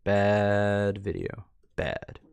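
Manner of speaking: slow, mock-stern scolding, as to a puppy; scolding a dog. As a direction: tell the dog off like a fond owner. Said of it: "I've had too much time with Heidi".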